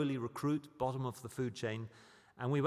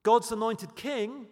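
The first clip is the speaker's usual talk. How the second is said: louder and slower, every word weighed; loud proclamation; 7 semitones higher, 7 dB louder, slower than usual. Acted. Preacher proclaiming Christ to the crowd, loud and slow. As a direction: ring the title out over the room.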